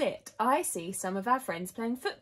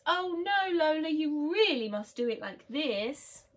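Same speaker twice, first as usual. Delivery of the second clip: put-on higher-pitched little-girl objection; bossy correction; 8 semitones higher than usual. A narrator's reading. Lotta corrects how Lola holds the lead, bossy and high. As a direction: protest and take over, insistently. Children bickering over lead.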